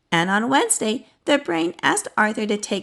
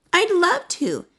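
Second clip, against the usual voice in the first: delighted; 9 semitones higher than usual. A narrator's reading. Offered a puppy.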